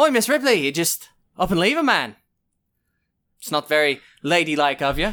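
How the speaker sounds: put-on Irish accent. Role-playing a character in a game, confronting a woman who left him, Irish accent. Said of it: "I lost my Irish accent there for a minute".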